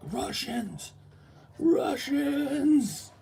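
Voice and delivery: high, rising to a loud yell; panicked shouting. Retold or imitated. Crowd running from soldiers, yelling in panic. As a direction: call out the warning in a panic. Fleeing people calling out.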